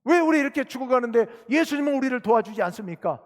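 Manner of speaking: indignant pleading question, preacher acting it out; acted reproach. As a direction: voice the disciples blaming their master. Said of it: "라고 예수님을 책망하고 있는 겁니다".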